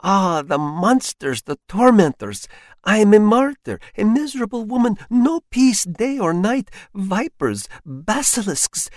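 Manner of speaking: high, loud, furious ranting; enraged tirade. Acted. Enraged wife rails at her husband in his underclothes, high and loud. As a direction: rail at them as a wronged martyr.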